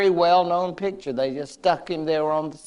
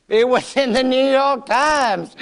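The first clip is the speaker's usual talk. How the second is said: amused, higher and louder with a laugh; chuckling at the irony; 7 semitones higher, 4 dB louder than usual. Real, not acted. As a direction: laugh through the punchline. Laughs while restating source.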